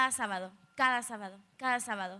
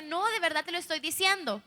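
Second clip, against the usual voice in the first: higher-pitched retold insistence; earnest protest; 4 semitones higher, 3 dB louder than usual. Daughter answering her doubting dad, earnest protest. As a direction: protest that you really mean it.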